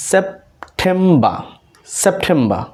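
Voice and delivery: সেপ্টেম্বর as "sep-TEM-ba"; silent final r. Shown as a demonstration. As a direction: drop the r at the end of সেপ্টেম্বর. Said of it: "তার মানে এগুলো হবে".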